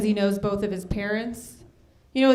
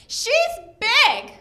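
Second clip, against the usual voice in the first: mimicking kid; 11 semitones higher, 4 dB louder than usual. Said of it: "he goes".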